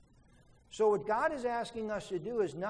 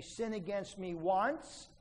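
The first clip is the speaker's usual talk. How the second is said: stubborn grudge quote. Retold or imitated. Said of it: "they say".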